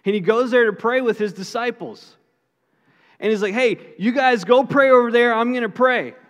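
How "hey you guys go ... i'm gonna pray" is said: voicing Jesus. Jesus voiced in retold Bible story.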